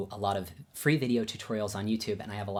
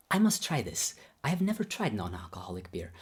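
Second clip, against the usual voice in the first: put-on Babayan accent. Teacher curious about his pupil's drink, in imitated Babayan accent. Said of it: "I'll do my best Babayan accent".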